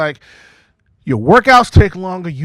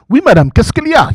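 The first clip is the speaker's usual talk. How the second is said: French IT guy; 7 semitones higher, 7 dB louder, faster than usual. Retold or imitated.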